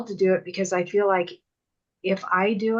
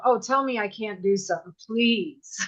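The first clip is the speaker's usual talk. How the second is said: defiant dare. Retold or imitated. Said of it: "just like you said".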